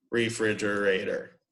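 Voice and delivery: slow "re-fri-ger-a-tor", every syllable distinct; counted-out syllables. Shown as a demonstration. Teacher counting the last five syllables, slow syllable-by-syllable delivery. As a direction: break "Refrigerator" into five even beats. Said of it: "We can count that out".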